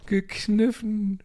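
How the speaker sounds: high, slow disbelief on Gekniffen; incredulous. Real, not acted. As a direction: repeat it in shock. Fassungsloses Wiederholen. (ungläubig, gedehnt)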